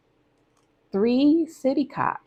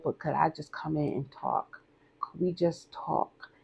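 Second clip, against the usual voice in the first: soft breathy whisper, pleading to be let in; hushed pleading whisper at the door; whispered plea; 5 dB quieter than usual. Retold or imitated. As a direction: whisper it like he's begging at the door. Abuser asking to come in.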